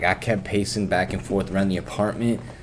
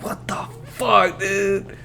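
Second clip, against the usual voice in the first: mock disbelief; 9 semitones higher, much slower than usual. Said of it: "And I was like".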